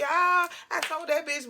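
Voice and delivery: a hint of a mouthy teen girl mid-brag; loudmouth girl. Loudmouth girl running her mouth.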